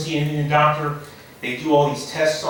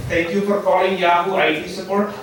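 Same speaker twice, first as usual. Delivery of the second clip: put-on Indian accent; 3 semitones higher than usual. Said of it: "how come you don't talk with an Indian accent".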